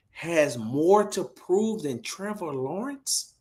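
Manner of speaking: high, drawn-out disbelief; incredulous. Real, not acted. Host questions Tay about an analyst's claim, incredulous. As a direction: stretch each phrase in high-pitched disbelief.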